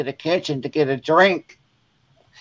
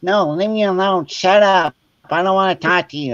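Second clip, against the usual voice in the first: higher-pitched mock sulk; imitated huffy refusal; 4 semitones higher than usual. Sister refusing an apology after prank, higher huffy imitation. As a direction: snub them like an offended sister.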